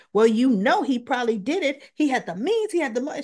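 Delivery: pushy retold demand. Molly pushing Anna, heated quote.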